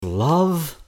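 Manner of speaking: high, loud theatrical cry of "Love?"; grand tragic wailing. Acted. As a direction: throw out "Love?" like a ham tragedian. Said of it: "goes into his serious acting mode".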